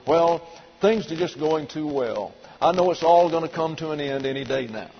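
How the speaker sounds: mildly gloomy put-on complainer; understated mock grumbling; mock whining. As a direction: imitate someone determined to find trouble. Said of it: "constantly whining and bickering".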